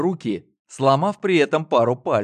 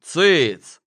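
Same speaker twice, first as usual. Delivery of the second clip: loud higher sharp hush; 4 semitones higher, 6 dB louder than usual. A narrator's reading. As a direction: bark a quick hush at him. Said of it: "прикрикнул на него телепат". (телепат резко прикрикивает на брата)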